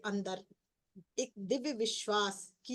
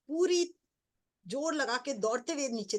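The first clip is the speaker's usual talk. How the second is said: excited burst; 4 semitones higher, 3 dB louder than usual. Real, not acted. Reliving running down the hill.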